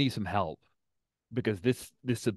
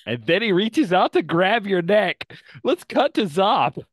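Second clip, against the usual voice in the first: loud, high-pitched burst of narration; spring the attack on them, voice way up; excited cliffhanger; 9 semitones higher, 11 dB louder than usual. Acted. Game master cuts away mid-attack, loud and excited.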